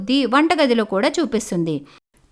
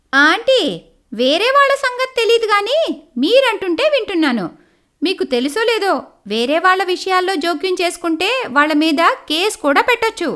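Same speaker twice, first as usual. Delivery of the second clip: put-on higher, pointed young woman's voice; sharp young lawyer; 5 semitones higher than usual. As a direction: put the nosy aunt in her place. Neha threatens a lawsuit.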